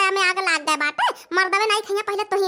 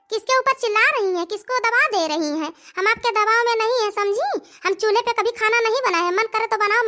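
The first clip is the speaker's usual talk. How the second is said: defiant retort; 3 semitones higher than usual. Acted. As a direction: stand your ground and snap back. Bride fights back at mother-in-law.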